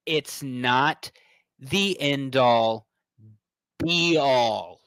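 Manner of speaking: slow, commanding address to fans; stern lecture. Acted. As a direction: lay down the law, slowly. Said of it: "come out there and say".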